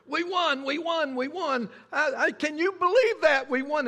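high, loud joyful cheer; thrilled fan yelling his team won; excited cheering. Retold or imitated. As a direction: shout it like the last-second winning touchdown. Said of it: "he's going".

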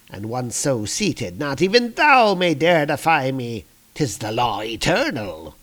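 lightly voiced Loki, grandiose; a touch of smug proclamation; haughty usurper. Usurper telling his brother he holds the throne, haughty.

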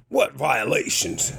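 slow, mildly indignant challenge; imitating a disbelieving, irritated man; mock indignant. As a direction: draw it out like an annoyed homeowner. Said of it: "he was so angry".

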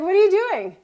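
sudden high, loud alarmed question; alarmed call. Retold or imitated. Hiking partner turning back to her, startled and loud. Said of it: "He's like".

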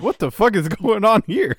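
a half-woken sleeper who has lost it; roused sleeper yelling out at the racket; mock bewildered shout. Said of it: "And you're like".

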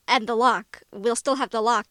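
loud, hammed-up fumbled line; mock over-the-top Sam. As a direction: overplay the flubbed line like a cheesy actor. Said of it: "he's messing up the line a little bit".

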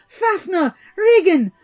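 high, loud shrieked summons; shrieking. A narrator's reading. Old man shrieking for his sons over the otter skin. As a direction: scream for your sons to come. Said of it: "he shrieked out".

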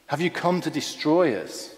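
mildly frightened spirit's question; understated acted dread; fearful calling out. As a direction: call out with a touch of fear. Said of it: "in fear, the evil spirit calls out".

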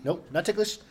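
high laughing pleas while tickled; being tickled. Real, not acted. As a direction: squeal through being tickled. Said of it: "don't tickle me".

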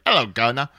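tossing off a clichéd fake Cockney greeting; mock Cockney. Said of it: "it's all Cockney and shit".

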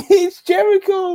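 high squeaky laughing voice. Real, not acted. Laughing exasperation.

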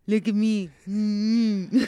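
lightly mocking his catchphrase; mocking husband. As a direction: tease him with a smug look at me. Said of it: "how do you say it?".

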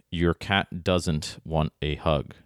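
slow title reading leaning on "doesn't"; stress on doesn't. Shown as a demonstration. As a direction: read it deliberately, emphasizing the word "doesn't". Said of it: "I emphasize the word doesn't".

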